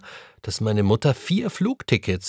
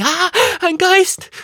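a shrill, drawn-out scream of fright, much higher and louder; boy startled by a figure in the dark, screaming; frightened scream; 7 dB louder, slower than usual. A narrator's reading. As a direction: shriek as if you've seen a ghost. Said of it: "und schrie".

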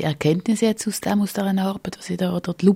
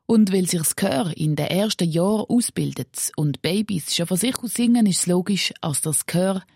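measured radio-feature voice-over; scripted report narration. A narrator's reading. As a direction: read the script to listeners, clearly phrased.

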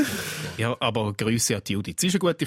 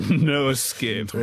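very slow drawn-out mimic; much slower than usual. Mimicking the robot word.

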